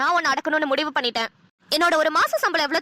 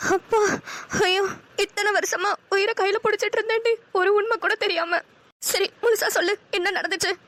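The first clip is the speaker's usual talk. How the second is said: higher, tearful pleading for the truth; frightened pleading; 5 semitones higher than usual. Acted. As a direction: press her for what happened. Says she is afraid. (பயத்துடன் கெஞ்சும் குரல்)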